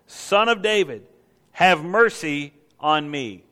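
loud, drawn-out plea; a beggar's cry, lightly acted. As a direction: call out for mercy, slow and emphatic. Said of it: "he kept crying out all the more".

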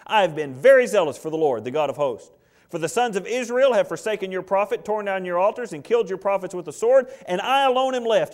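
high, loud, whining self-justification; self-pitying tone. Acted. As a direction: whine like a wronged servant. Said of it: "that's said with tone".

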